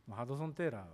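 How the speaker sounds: ハドソン・テーラー with a light Osaka lilt; Osaka dialect. Shown as a demonstration. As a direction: say ハドソン・テーラー the Kansai way, falling on テー. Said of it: "大阪弁だと".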